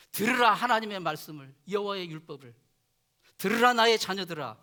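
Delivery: put-on a loud, solemn summons to children; parental proclamation. Hebrew parents teach their children to hear God, proclaiming. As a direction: call out 들으라 with force, then ease off.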